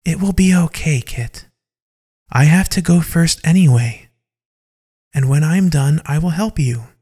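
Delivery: soothing tone, lifted in pitch. A narrator's reading. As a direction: gently reassure a frightened friend. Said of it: "whispers a soothing voice to Kit".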